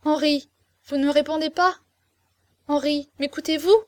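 high, pressing entreaty; distressed heroine begging to be heard; tearful pleading. A narrator's reading. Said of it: "elle reprit les larmes aux yeux".

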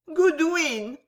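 high, sweetly plaintive call; soft voice. A narrator's reading. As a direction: call the maid in a feeble, high little voice. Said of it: "dit madame Pott d'une voix douce". (voix douce et haut perchée)

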